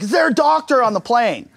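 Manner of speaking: flight attendant calling out. Retold or imitated. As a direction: call for a doctor, rising in panic. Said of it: "She's like".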